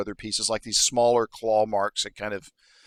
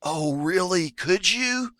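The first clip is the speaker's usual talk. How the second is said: put-on high childlike wonder; squeaky hopeful kobold; 7 semitones higher, slower than usual. Kobold offered help by adventurers, squeaky and hopeful. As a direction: rise higher, full of hope. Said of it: "his eyes get a little bit wider".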